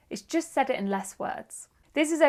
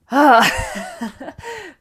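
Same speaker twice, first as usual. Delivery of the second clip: big loud sigh, half laughing; loud breathless sigh; 4 semitones higher, 10 dB louder than usual. Real, not acted. Teacher gasping after a long sentence, loud sigh. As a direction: let out a big winded sigh. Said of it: "I'm still out of breath".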